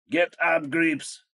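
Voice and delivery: high, loud yelp of an order; frantic yell. A narrator's reading. Krot from under the table to soldiers, frantic yell. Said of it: "истошно завопил Крот из-под стола".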